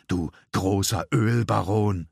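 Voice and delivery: drawn-out sarcasm to provoke him; wife jeers at her husband, slow and scornful; mocking taunt. A narrator's reading. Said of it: "als wollte sie Dad bewusst auf die Palme treiben".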